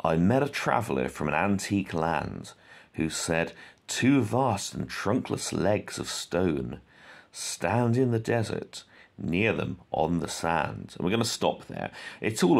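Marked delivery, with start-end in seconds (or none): 0.0-3.5 poem reading. Shown as a demonstration. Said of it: "I'll just read the first stanza". 3.9-10.9 slow, measured recitation of Shelley; slow poem reading. Shown as a demonstration. Teacher reading Ozymandias aloud to the class, slow and measured. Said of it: "I'll just read the first stanza".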